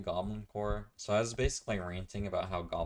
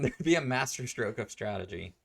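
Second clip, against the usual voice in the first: amused acted boast; 5 semitones higher, 6 dB louder than usual. Acted line, laughing at own performance.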